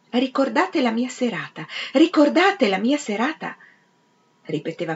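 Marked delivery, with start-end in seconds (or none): 0.1-3.6 "Ricordate la mia serata" in measured, raised-pitch beats; rhythmic repetition. A narrator's reading. Peter echoes "Ricordate la mia serata" to Big Ben, rhythmically. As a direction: chant "Ricordate la mia serata" in time with chimes. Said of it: "ritmando le parole a tempo col fiotto di melodia".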